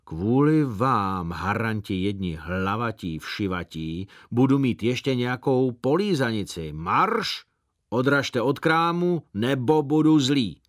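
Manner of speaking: mock-furious chasing off of kids; terrible voice. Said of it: "pravil děsným hlasem".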